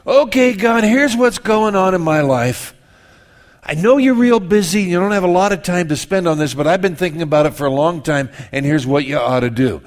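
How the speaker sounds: lightly hammed-up know-it-all prayer; mock bossy prayer. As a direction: pray like you're giving God instructions. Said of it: "we don't verbalize it that way".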